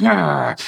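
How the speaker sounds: drawn-out mock growl of annoyance; imitated frustrated growl. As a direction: growl as if just cut off in traffic. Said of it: "immediately like".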